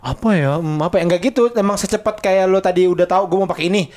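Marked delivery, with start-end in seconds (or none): 0.0-1.0 low, pondering hmm; thinking hmm. Retold or imitated. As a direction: mull it over, unsure. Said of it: "sebenarnya bukan kayak".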